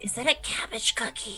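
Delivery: whispered as quietly as possible, barely audible. Her character leans over toward the one who handed it over: as quietly as she can. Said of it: "as quietly as she can, she goes".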